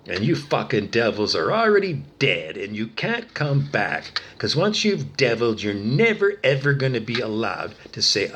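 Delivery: real anger, hammering the key words; angry condemnation. Real, not acted. Telling the devils they can't come back, angry. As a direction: condemn them forcefully, voice pushed up on the stresses. Furious rant at the accused devils.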